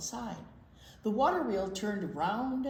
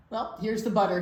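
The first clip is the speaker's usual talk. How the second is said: louder proud call; shout; 3 semitones higher, 8 dB louder, faster than usual. Acted. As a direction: announce it loudly. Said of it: "he shouted".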